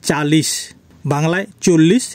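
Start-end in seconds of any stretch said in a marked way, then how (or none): 0.0-0.5 চালিশ said as Hindi chalis; Hindi pronunciation. Shown as a demonstration. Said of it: "হিন্দিতে হবে চালিশ".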